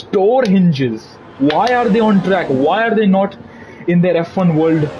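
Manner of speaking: exaggerated, baffled complaint; mock indignation. Streamer ranting in jest about drivers staying on track, mock indignant. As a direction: play up an incredulous rant. Mock rant on game pros and cons.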